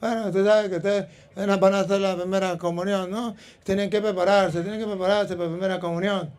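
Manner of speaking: lightly imitated feeble bishop; mild weak-voiced bishop. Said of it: "él no tenía fuerza en la voz".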